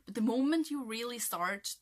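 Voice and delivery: slipping into a bad American accent on "But the moment you really start"; unintended American accent, lightly. Shown as a demonstration. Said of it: "sounds like a really bad American accent".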